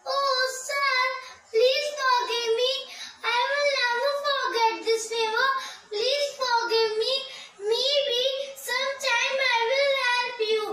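high-pitched, mildly frightened begging; scared mouse pleading. Acted. Scared mouse begging the lion for forgiveness, high pleading. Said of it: "The mouse got scared".

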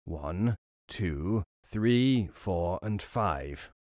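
low, quiet counting; robber. Acted. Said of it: "he began counting".

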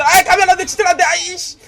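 loud high desperate plea; beg, then curse; frantic plea. Real, not acted. (절박하게 외치는 만류)

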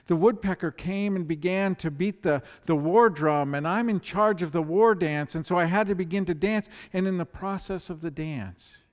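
a frantic little mouse explaining itself to the otter; flustered deer mouse. Acted. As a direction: babble your excuse in a rush.

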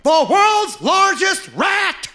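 slow booming carnival barker shout, pitched high; barker yell. Retold or imitated. Sideshow barker yelling at passersby, booming shout. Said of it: "he was just yelling at people".

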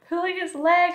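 high, loud centipede cry; hysterical glee. A narrator's reading. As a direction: cry it out, tickled by the joke. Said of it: "sent the centipede into hysterics".

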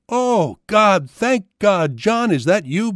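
high, loud cry of relief; overjoyed scream. A narrator's reading. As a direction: cry out high, stretching the thanks. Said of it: "Binta screamed as she ran".

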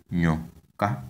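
nyoka, careful two-part demo lifting at the end; ny as one sound. Shown as a demonstration. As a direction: model nyoka, rising on the last syllable. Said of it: "gives one sound".

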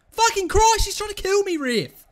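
loud, high-pitched yell; real indignant shout, coming down at the end; outraged protest. Real, not acted. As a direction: appeal to the ref in disbelief. Protesting a foul to referee.

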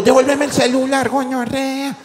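high, yelled demand; retelling yelling at a phone thief; retold yell. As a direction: shout after a thief. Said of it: "cuando yo".

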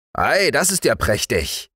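high-pitched, pleased host; delighted exclamation. A narrator's reading. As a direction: cry out with delight. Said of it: "rief der Wirt". (erfreuter Ausruf)

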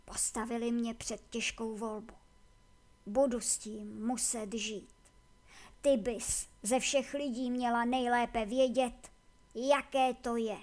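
subdued confession with a hint of weariness; weary Akama, resigned. Voices weary Akama in dialogue.

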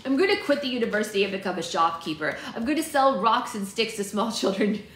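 lightly voiced cartoon boy; hint of a boy character, ending near laughter; Chucky from Rugrats. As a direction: declare it like a small cartoon kid. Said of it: "I am using my Chucky voice".

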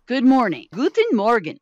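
loud, announced Guten Morgen; bold German try. Shown as a demonstration. Ready for her German lesson, saying it boldly. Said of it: "Okay, ready?".

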